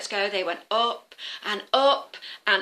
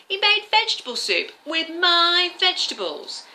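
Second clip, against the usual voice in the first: high, loud and indignant, a cheated woman; indignant outburst; 7 semitones higher, 5 dB louder, slower than usual. Acted. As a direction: scold the trickster, slow and pointed on the insult.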